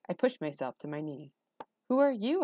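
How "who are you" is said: put-on high-pitched startled boy; alarmed, pitch leaping up; startled question. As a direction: demand it in a jumpy high voice.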